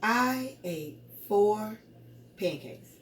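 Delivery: very slow, pause before PANCAKES; counting words. Shown as a demonstration. Teacher counting words with pupils, very slow word-by-word. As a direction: set each word apart for counting. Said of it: "Let's count".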